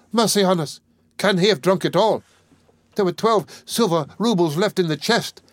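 high, furious lament; wife realising he drank it all, in fury. A narrator's reading. Rage over the lost roubles. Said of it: "And in a fury".

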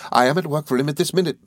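put-on high, eager old schoolfellow; Traddles, good-tempered. A narrator's reading. Traddles welcoming his old friend, high and good-tempered. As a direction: explain earnestly in a lifted character voice.

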